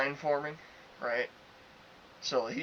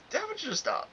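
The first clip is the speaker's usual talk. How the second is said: much higher-pitched retold confrontation; retold firm interjection. Worker cutting off an arguing customer, retold firm interjection. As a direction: cut in on the arguer, pitched right up.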